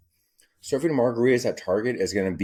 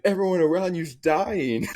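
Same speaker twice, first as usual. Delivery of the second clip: high creepy voice; 11 semitones higher than usual. Retold or imitated. Uncle telling his niece bad news, high creepy voice. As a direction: announce doom in a strange high voice.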